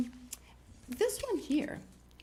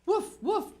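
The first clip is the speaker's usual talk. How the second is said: loud, high woofs; two punchy raised-pitch barks; dog bark; 11 semitones higher, 7 dB louder than usual. A narrator's reading. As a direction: bark like a little storybook dog. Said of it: "barked the dog".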